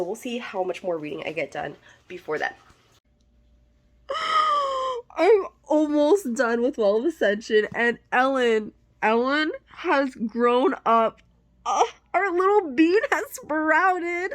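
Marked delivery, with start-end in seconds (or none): 4.1-5.1 sharp high gasp of shock; loud gasp. Real, not acted. Reading a shocking chapter. 5.2-14.3 louder, gushing about a character; excited. Real, not acted. Excited about book character growing.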